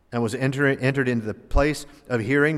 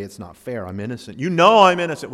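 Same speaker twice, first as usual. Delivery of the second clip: whiny protest; 5 dB louder than usual. Retold or imitated. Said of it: "Like this, he didn't say".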